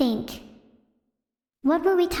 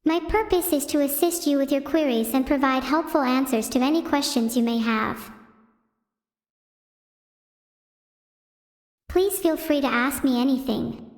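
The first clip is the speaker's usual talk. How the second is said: ChatGPT impression. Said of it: "Chat G P T impression".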